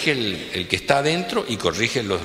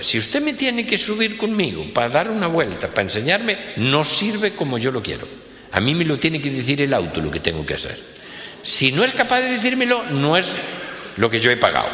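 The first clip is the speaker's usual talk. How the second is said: higher-pitched rich man lecturing; indignant boss; 6 semitones higher than usual. Acted. Rich boss insists to the car seller, raised pitch. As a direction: boss demanding his money's worth.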